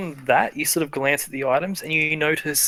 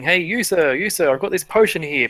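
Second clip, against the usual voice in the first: eager street-seller pitch, lightly raised; hawker calling out; 3 semitones higher than usual. Acted. Merchant touting a potion to a random passerby, hawker calling out. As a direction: hail a passerby to sell your wares. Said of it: "immediately start calling out to someone else".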